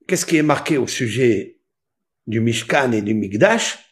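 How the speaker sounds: ordinary talk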